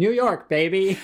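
high hammed-up cheer; playful boast to host; mock triumph. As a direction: crow it like a tourist. Mock celebration.

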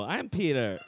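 half-hearted stab at a Family Guy voice. Shown as a demonstration. Guest correcting his demo, tentative Family Guy voice. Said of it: "a Family Guy accent".

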